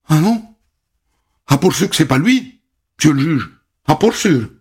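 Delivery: put-on high, emphatic country girl. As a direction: insist firmly to the judge. Witness denies it's him, voiced.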